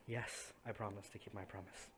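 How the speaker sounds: soft, understated giving-in; lightly acted weary agreement; resigned sigh. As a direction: promise it quietly, as if sighing. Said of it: "And she just sighs and".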